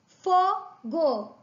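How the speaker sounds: "Fogo" in syllables, FO stronger; stress on FO. Shown as a demonstration. Teacher sounding out syllables for pupils, FO stressed in "Fogo". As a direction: lean on the FO of "Fogo". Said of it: "Fo é mais forte".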